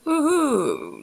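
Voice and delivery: a high mock posh English Woohoo; silver-spoon toff, airily high; posh aristocrat. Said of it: "aristocrat kind of posh".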